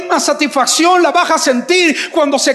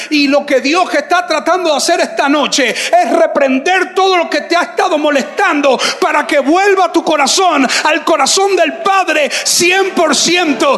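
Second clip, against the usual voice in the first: preaching at full force; 3 semitones higher than usual. Acted. Preacher urging the congregation to give God their heart, shouting. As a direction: build the appeal until you are calling out.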